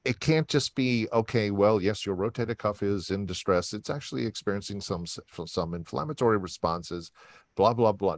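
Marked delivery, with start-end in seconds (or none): 1.1-8.1 monotone doctor lecturing patients; droning clinical voice. Shown as a demonstration. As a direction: drone on like a dry textbook. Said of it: "Notice how my voice changes".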